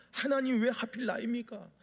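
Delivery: a hint of tearful pleading, pitched a little up; mock tearful prayer. A believer at dawn prayer, thanking God for a promotion, in mock tears. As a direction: pretend to weep while praying. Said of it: "막 울면서".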